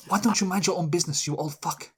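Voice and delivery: Greta Thunberg. Acted. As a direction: scold in a hammed-up Swedish accent. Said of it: "It's a very intense Swedish voice".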